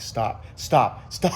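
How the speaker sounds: pleading stop through a laugh; laughing half-plea in my head. Retold or imitated. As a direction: beg him to stop while laughing. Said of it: "I'm like, in my head".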